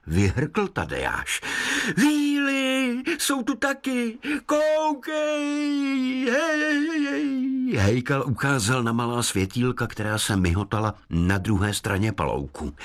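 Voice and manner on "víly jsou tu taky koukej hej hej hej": high, odd woodland voice; forest spirit. Acted. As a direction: speak like a kindly sprite. Hejkal speaks.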